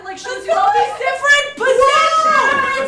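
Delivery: giddy glee. Acted. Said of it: "struck by a very powerful emotion".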